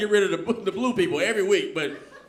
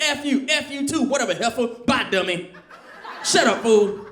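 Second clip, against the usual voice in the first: parents cussing; 4 semitones higher than usual. Retold or imitated. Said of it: "their love language, cussing".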